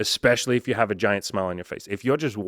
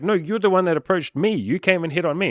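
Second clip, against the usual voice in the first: much higher, louder protesting woman; indignant girl voice; 9 semitones higher, 6 dB louder than usual. Acted. Coach voicing the woman insisting he approached her, high and loud. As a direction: squeal it out as the accused girl.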